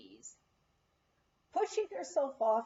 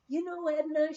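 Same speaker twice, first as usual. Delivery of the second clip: higher, homespun chatty cook; folksy cook voice; 5 semitones higher, 4 dB louder than usual. Retold or imitated. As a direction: voice Pet, the plainspoken cook. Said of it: "she would say to me".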